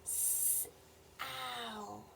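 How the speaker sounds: "S-al" with a long hissed s, then soft drawn-out al; sounding out a word. Shown as a demonstration. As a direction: stretch each sound of "S-al" softly. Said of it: "how do we spell Sal".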